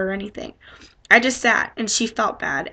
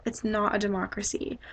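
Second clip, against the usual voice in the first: soft, much quieter close, easing it out; gently; 7 dB quieter than usual. Retold or imitated. Violet gently correcting him after apologizing. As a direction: say it kindly so as not to sting. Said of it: "really gently".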